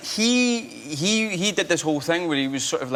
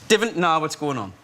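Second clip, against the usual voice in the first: learner's North Shields accent, "going" kept standard; attempted Geordie accent. Shown as a demonstration. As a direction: try the Geordie line, saying "going on" as GO-ing on. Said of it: "this lesson".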